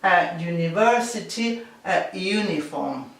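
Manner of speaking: "A university, a uniform" with plain a before the Y sound; plain a, no N, slowly; article a. Shown as a demonstration. Teacher models the article a for Spanish students. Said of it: "sin la N".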